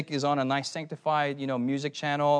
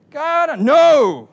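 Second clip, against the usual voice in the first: exasperated no; 11 semitones higher, 12 dB louder than usual. Retold or imitated. Exasperated refusal in story.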